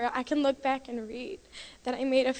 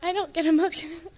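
teary laugh, high; laughing through tears; 5 semitones higher than usual. Real, not acted. Girl embarrassed by her tears, laughing through them. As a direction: laugh it off while crying. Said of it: "You sure are emotional now".

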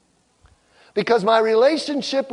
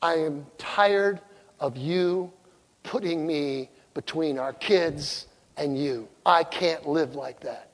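tearful wife; 4 semitones lower, 6 dB quieter, slower than usual. Retold or imitated. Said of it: "She looked at me with tears in her face".

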